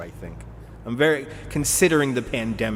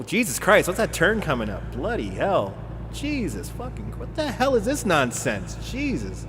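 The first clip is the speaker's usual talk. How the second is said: higher-pitched incredulous cursing; alarmed exasperation; 5 semitones higher than usual. Real, not acted. Driver meeting a sudden turn, exasperated cursing. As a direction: swear in disbelief, pitch jumping up.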